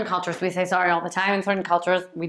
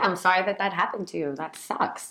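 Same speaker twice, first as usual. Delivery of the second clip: soft, sympathetic, trailing quieter; empathizing; 4 dB quieter than usual. Shown as a demonstration. Comforting someone over what happened to them, empathizing. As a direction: sympathize without taking blame. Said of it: "it's empathizing with the other".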